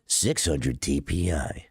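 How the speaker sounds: slow deep DPI announcer. Pretend. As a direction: drop it low and slow like a DPI readout. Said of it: "sick voice is giving them D P I energy".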